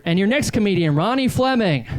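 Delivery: lightly imitated stage announcer, lifting on the name; mock MC introduction. Host introducing the next comedian, mild imitated announcer voice.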